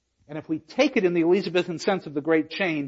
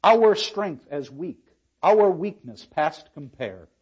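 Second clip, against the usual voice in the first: slow verse; 3 dB louder, slower than usual. Acted.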